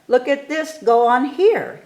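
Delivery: plain reading voice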